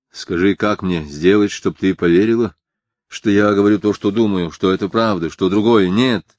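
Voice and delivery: громче, с напором; требуй, чтобы она поверила; настойчивая мольба. Acted. Крис настойчиво умоляет поверить. (Крис громко и настойчиво умоляет Харри поверить)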